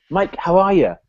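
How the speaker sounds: cheery salesman greeting. Retold or imitated.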